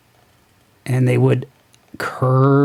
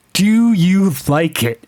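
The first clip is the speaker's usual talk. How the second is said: slow, higher reading amid laughter; incredulous quoting; 5 semitones higher, slower than usual. Acted. Reviewer rereading her line to prove a point, laughing incredulously. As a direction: drag the quote out in amused disbelief. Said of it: "She said".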